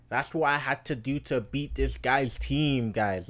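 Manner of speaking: loud, hyped-up boasting to the viewers; excited bragging. Real, not acted. Vlogger boasting to viewers about his fantasy stats, loud and hyped. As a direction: pump up every stat like a trophy.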